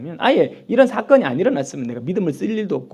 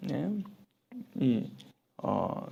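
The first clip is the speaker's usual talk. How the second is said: usual speaking voice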